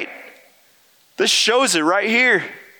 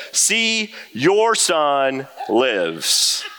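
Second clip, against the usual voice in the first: slow, laughing announcement; joyful, laughing; 3 semitones lower, much slower than usual. Retold or imitated. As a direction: deliver good news through laughter. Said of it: "and Elijah said".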